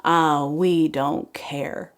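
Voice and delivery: slow, shrugging don't-care; drawn-out careless voice; carefree pumpkin. Acted. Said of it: "third pumpkin who says".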